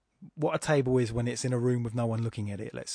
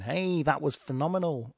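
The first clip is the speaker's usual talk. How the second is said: jokey put-on accent, lifted "Hey"; 3 semitones higher than usual. Podcaster joking about the word's everyday sense, in a put-on accent. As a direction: exclaim it in a mock accent. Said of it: "did that in that accent".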